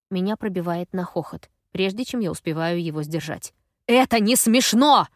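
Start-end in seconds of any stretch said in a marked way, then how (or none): 3.9-5.1 loud, slow angry yell. A narrator's reading. Gaz yells at Effie for laughing, loud and slow. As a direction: bellow it at her. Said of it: "орёт Газ".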